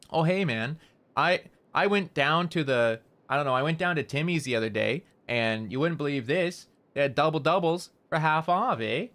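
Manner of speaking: a light Canadian accent with pauses, rising at the breaks; Canadian telling a friend about Timmy's, lightly accented; Canadian accent demo. Shown as a demonstration. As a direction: show off a laid-back Canadian accent. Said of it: "I'm just gonna repeat the whole".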